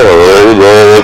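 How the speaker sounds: stretched mock "ohh" noise; long teasing "ohh"; mimicked drawn-out "oh". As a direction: imitate someone groaning along while writing. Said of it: "ऐसा लिख रहा था क्या?".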